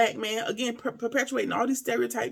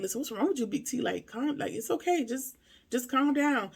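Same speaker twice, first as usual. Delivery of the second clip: calming friend; 3 semitones higher, 4 dB quieter than usual. Retold or imitated. Retells friend calming Big T down.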